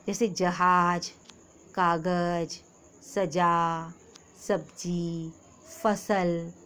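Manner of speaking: जहाज with a clear z sound, फसल with f; nukta sounds. Shown as a demonstration. Teacher demonstrating nukta sounds to children. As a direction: slowly sound out z and f. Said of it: "नुक्ता लगाते हैं".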